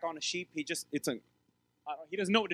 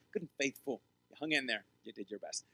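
corrected quote; 6 semitones lower, 5 dB quieter than usual. Shown as a demonstration. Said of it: "Just said faithful".

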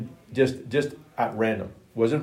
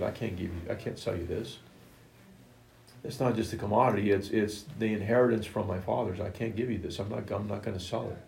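Naboth refuses the king, soft and firm, much softer; quiet refusal; 6 dB quieter than usual. Acted. Naboth tells King Ahab he will not sell, quiet and firm. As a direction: hold your ground quietly.

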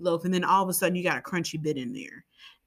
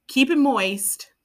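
higher, louder and slow, milking the word; teasing emphasis; 7 semitones higher, 5 dB louder, slower than usual. Acted. Host deliberately teasing her co-host with the word moist. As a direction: drag it out to get a laugh.

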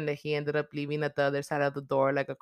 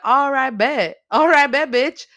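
louder, higher cocky threat; mock menacing reply; 8 semitones higher, 10 dB louder, slower than usual. Killer answering Sam's taunt, loud cocky threat. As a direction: accept the dare with a sneer. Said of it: "he was like".

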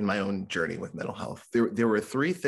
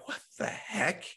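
higher whispered disbelief; bewildered whisper; 10 semitones higher, 5 dB quieter, slower than usual. Retold or imitated. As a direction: breathe it out baffled. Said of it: "And I'm like".

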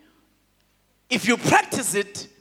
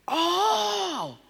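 high, loud laughing exclamation; laughing pastor; 9 semitones higher, 3 dB louder, slower than usual. Retold or imitated. Pastor on the phone, laughing and loud. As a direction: burst out laughing as you say it. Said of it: "That's Pastor Nkiwana saying that to me".

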